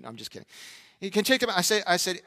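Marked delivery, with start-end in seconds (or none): 1.1-1.6 lightly mimicked higher kid voice; a hint of the pestering neighbor boy; annoying neighbor kid. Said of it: "why do you have to have a voice like that".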